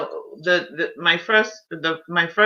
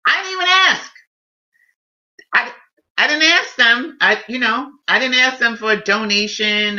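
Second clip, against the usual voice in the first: pitched up high and insistent; raised, emphatic denial; emphatic insistence; 5 semitones higher than usual. Real, not acted. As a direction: stress that she never asked for anything. Insisting friends gave unasked.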